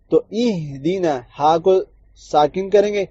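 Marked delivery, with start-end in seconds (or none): 0.3-1.2 اہدنا with ee on the alif; kasra ee. Shown as a demonstration. Teacher giving the right first vowel, slow. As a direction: say اہدنا starting with an ee. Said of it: "کسرہ آئے گا ای".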